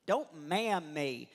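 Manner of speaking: slow, emphatic imitated rebuke; mock indignation. Wife rebuking husband for calling her ma'am, slowly indignant. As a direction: space out each word as a warning.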